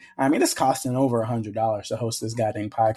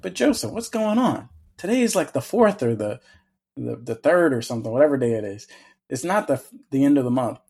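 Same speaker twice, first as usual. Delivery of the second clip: mock listener complaint. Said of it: "you might be saying".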